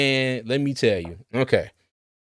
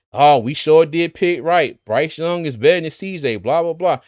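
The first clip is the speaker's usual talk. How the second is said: higher, louder mock-fan brag; mock boasting; 4 semitones higher, 5 dB louder than usual. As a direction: imitate crowing fans, then dismiss it. Mockingly quoting fans on Twitter.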